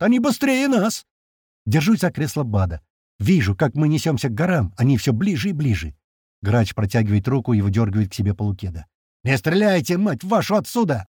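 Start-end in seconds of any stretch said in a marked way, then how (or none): 0.0-1.0 high, drawn-out alarmed cry; yelled warning. A narrator's reading. Crewman seeing pursuers gain, drawn-out yell. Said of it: "орёт Крот". 9.2-11.1 raised, urgent order; mildly shouted command, pitched up; angry yell. A narrator's reading. Man ordering shooters to stop, angry yell. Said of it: "орёт он на весь салон".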